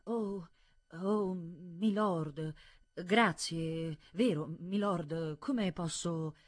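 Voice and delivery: halting, drawn-out stammer; faltering, hesitant gratitude. A narrator's reading. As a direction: stumble slowly through flustered thanks. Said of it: "il dottore balbetta".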